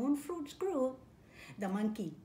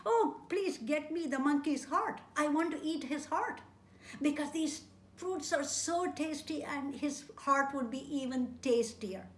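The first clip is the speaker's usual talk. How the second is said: higher, louder coaxing wife voice; pleading wife; 4 semitones higher, 4 dB louder than usual. Acted. Wife coaxing her husband for the heart, higher and louder. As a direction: wheedle for the monkey's heart.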